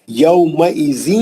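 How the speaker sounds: tajweed drill; slow recitation. Shown as a demonstration. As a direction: recite یومئذ slowly. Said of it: "یو، لین اچھا رہنا".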